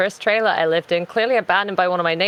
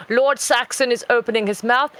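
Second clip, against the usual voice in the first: higher posh mock-documentary announcement; David Attenborough; 4 semitones higher than usual. Narrating the cat's mouth opening, posh documentary voice. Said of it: "I'm David Attenborough in this".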